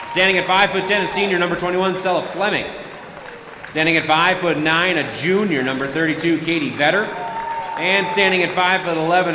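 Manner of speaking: PA announcer over the gym speakers; echoing stadium announcer. Acted. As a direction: read the lineup like an arena PA. PA announcer introduces visiting starters.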